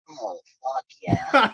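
high, drawn-out voice; put-on catchphrase voice. Shown as a demonstration. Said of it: "I could do the".

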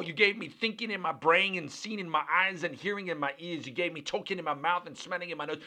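fervent, tumbling list of thanks; overflowing gratitude. Acted. Believer thanking the Lord for life and forgiveness, fervently. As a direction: pour out thanks almost without pausing. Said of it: "That's an attitude of gratitude".

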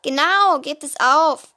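firm cousin. Acted. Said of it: "bekräftigte unser größerer Cousin".

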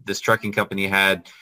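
ordinary talk

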